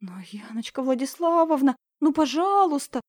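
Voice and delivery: whispered then high begging; pleading girl. Acted. Lyalya begging her teacher, whisper rising to plea. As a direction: beg with hands pressed together. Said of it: "молитвенно сложила ладошки".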